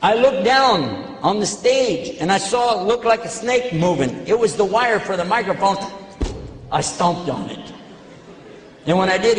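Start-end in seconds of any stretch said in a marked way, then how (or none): none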